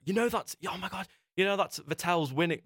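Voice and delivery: high-pitched astonished retort; retold incredulity. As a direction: act out amazed disbelief. Retells his astonished reply to her.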